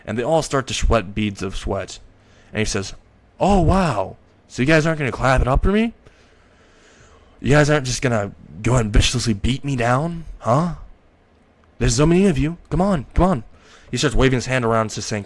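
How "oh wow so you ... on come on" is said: higher-pitched mocking challenge; cocky, rising taunt. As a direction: goad them to make a move. Sneering dare to scared bullies.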